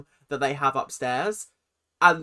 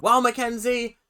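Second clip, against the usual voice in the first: mock Abby lecture; 2 semitones higher, 4 dB louder than usual. Mocking Abby lecturing Mackenzie.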